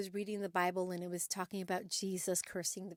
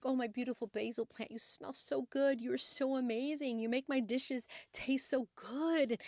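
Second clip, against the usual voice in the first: lightly acted gushing, higher on the praise; adoring praise; 3 semitones higher than usual. Woman sweet-talking her basil plant, mock adoring. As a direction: coo compliments at a beloved plant, stretching the praise. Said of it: "speak these wonderful words to it".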